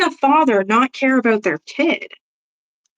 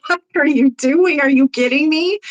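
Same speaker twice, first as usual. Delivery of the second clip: outraged disbelief; 5 semitones higher than usual. Retold or imitated. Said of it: "And I'm like".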